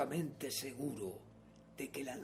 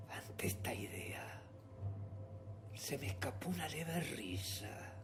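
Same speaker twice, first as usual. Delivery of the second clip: confesión siniestra; 10 dB quieter than usual. A narrator's reading. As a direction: drop to a secretive hush. Confesión siniestra en voz baja. (confesión siniestra en voz muy baja)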